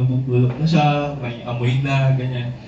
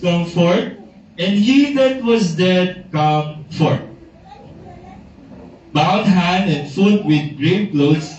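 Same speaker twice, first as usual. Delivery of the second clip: slow, measured Bible reading; scripture reading; 2 semitones higher than usual. Acted. Preacher reading John eleven to the congregation, measured and solemn. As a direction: read the verses with weight.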